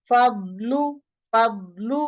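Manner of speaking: ফাবলু with sound through the nose; nasal ghunna error. Shown as a demonstration. Teacher showing the blocked-tongue nasal mistake. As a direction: show ফাবলু with an unwanted nasal hum. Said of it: "গুন্নার sound হয়".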